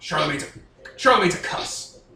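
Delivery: venomous, scornful, hateful, contemptuous tone. Asked whether they really need to find Charlemagne, answering in a hateful tone. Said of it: "It sounds hateful when you say it like that".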